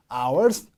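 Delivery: "hours" lifted with a rising tune; rising intonation. Shown as a demonstration. Teacher modelling the second list item, rising on "hours". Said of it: "또 올려주시고".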